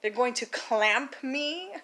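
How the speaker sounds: slow, questioning mock alarm; understated incredulous question; mild disbelief. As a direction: stretch it out in retold disbelief. Retold shock at the word clamping.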